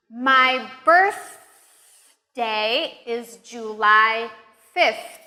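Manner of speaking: slow, with a long voiceless TH in birthday and fifth; exaggerated TH. Shown as a demonstration. Teacher modeling a practice sentence, slowly exaggerating the TH in birthday and fifth. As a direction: stretch the TH in birthday and fifth, pausing between chunks. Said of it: "practice some sentences with the T H sound".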